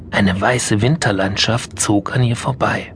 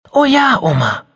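put-on very high, bright child's yes; beaming little girl; eager child; 4 dB louder than usual. Mia answering grandma, eager.

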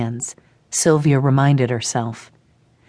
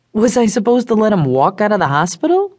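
glaring; 5 semitones higher, faster than usual. A narrator's reading. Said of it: "Danny glared".

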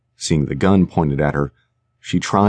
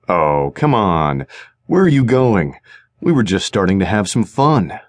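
dripping sarcasm. Acted. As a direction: tease them with mock disappointment. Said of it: "Bender's voice dripped with sarcasm".

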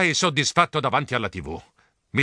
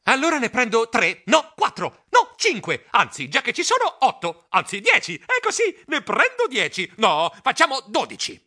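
higher, flustered squeaky voice; anxious squeak; 8 semitones higher than usual. Acted. Anxious customer ordering more and more, squeaky. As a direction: squeak it out nervously, raising the number. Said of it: "Io squittii ansioso".

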